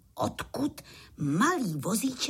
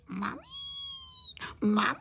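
wailed calling; 3 dB quieter than usual. A narrator's reading. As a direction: wail for help like a tearful little one. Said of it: "brečeli na celé kolo a volali".

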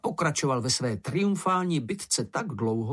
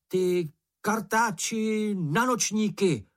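higher, slow, mock-fierce name-calling; insulting yell; 9 semitones higher, slower than usual. A narrator's reading. Moomin hurls insults at the bush, mock-fierce yelling. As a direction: taunt the monster with childish fury. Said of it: "pokračoval".

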